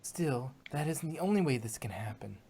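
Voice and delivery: breathy whisper, as if afraid of being overheard; hushed whisper. Acted. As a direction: whisper it, unnerved. Twilight unnerved, reading secret spell.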